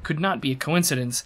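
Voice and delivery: dramatic fantasy lore narration; story narration. A narrator's reading. Streamer reading game lore to chat, storytelling voice. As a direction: read it as a solemn, expressive storyteller.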